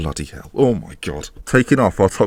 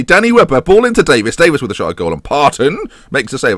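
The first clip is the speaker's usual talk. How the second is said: commentator voice; 2 semitones higher than usual. Acted. Commentating his own game, a mock commentator call for the viewers. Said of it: "why I'm saying it like that".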